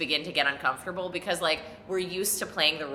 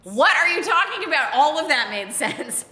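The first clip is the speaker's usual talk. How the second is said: mock incredulous; 9 semitones higher, 7 dB louder than usual. Real, not acted. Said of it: "narrator's own mock outrage".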